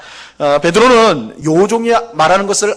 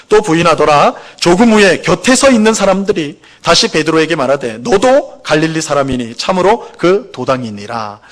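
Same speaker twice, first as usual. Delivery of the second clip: deliberate, evenly paced recitation of scripture; scripture reading. Acted.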